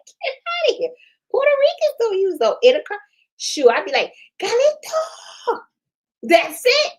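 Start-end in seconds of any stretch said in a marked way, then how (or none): 0.0-3.0 high, mock-outraged disbelief; incredulous scoff. Mock scoffing at intercom offer. 4.4-6.9 high, drawn-out call across the house. Pretend. Calling out to family member.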